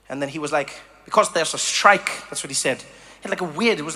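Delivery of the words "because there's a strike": lightly imitated not-quite-Dutch accent; matter-of-fact reply in a hint of a Dutch-like accent; odd Dutch-like accent. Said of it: "like, Dutch, but it wasn't Dutch accent".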